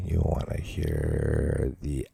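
slow, drawn-out mock ASMR; lingering parody of a podcast murmur; mock ASMR host. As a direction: tease the listeners slowly, milking each word.

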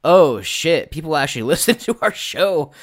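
high, loud and amazed; stunned delighted outburst; excited realization. Retold or imitated. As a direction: blurt it out in delighted shock. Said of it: "And I was like".

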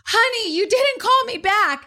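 high-pitched, frantic phone answer; imitated frantic husband. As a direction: mimic a husband in a fluster. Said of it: "he frantically answers the".

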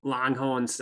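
abandoned attempt at an Australian accent. Shown as a demonstration. Trying out a steakhouse name, failed Australian accent. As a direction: try an Australian accent on "Longhorns," dropping the r. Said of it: "said with an Australian accent".

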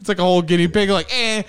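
way up high, squealing it out; squeaky high voice. Retold or imitated. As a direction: squeal it like a cartoon. Mocking pet disposal, high squeal.

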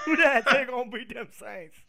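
hammed-up New Orleans Creole accent. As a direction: belt out "Who that?" like a New Orleans fan cheering on the Saints. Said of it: "you sound like an old-fashioned Creole".

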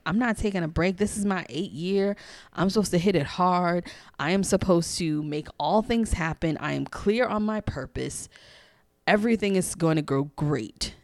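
defiant rant, acted with some restraint; retold angry protest. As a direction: protest firmly, point after point. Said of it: "mentally cursing her out".

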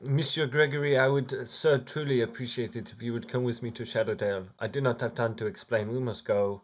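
put-on French-sounding accent, formal plea; theatrical, earnest invitation; courtly accented adventurer. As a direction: plead politely but urgently in character.

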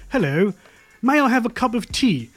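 polite English accent, tea-time request. Shown as a demonstration. Host teaching American guest the accent, polite English accent. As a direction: demonstrate a proper English accent. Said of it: "learn you guys' accent".

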